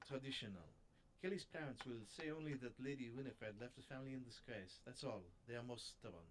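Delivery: attempted French accent, lightly done; a shaky go at a French detective; amateur French accent, mildly put on. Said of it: "That's the worst French accent ever".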